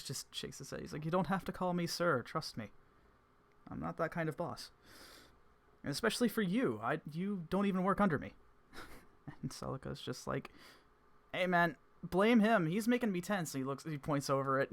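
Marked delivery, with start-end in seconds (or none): 1.0-8.3 much higher, louder amused boss; Evans voice. Acted. 11.3-13.5 much higher, loud and slow, mock complaint; Celica voice.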